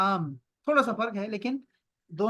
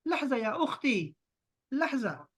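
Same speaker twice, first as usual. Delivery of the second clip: slow, a touch higher, drawn-out "لحظہ یا اخی"; asking a brother to wait; 4 semitones higher, slower than usual. Shown as a demonstration. Teacher shows students how to ask a friend to wait, slow and a little higher. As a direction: gently hold someone off with a drawn-out "لحظہ". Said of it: "تو آپ نے کہنا ہے".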